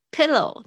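crisp Pillow with a full ow glide; clear pillow. Shown as a demonstration. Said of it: "注意一下那个O W发音".

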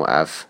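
"f" as its sound, not the letter name; 字母读音. Shown as a demonstration. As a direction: sound out "f" on its own. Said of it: "字母F只能读成". (发 "f" 的音，不读字母名)

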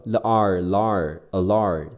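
"l" and "ar" slowly blended up to "alarm"; sound blending. Shown as a demonstration. Teacher adding the l sound, slow step-by-step blending. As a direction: build "alarm" slowly from "lar". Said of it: "前面加上了".

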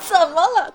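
怎么了 punched hard and high through a laugh; stress on the last three. Shown as a demonstration. Girlfriend snapping back in a fight, stress on 怎么了. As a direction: hit every word of 怎么了. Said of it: "最后三个字儿还要重音".

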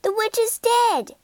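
high, loud triumphant cry; shouted. Acted. Dorothy shouts to everyone that the witch is dead, joyful shout. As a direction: shout it out in glee. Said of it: "she shouted".

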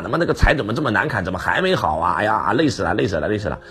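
grumbling curse. Retold or imitated. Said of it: "他边砍边骂".

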